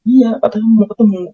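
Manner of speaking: a brisk high-pitched "iya" urging him in; voicing the pastor. Pastor reassures at church door.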